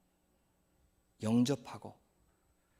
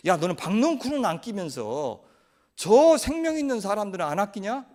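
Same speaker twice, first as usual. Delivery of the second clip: angry retort; 3 semitones higher, 4 dB louder than usual. Acted. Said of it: "또 하나님한테 화를 내죠".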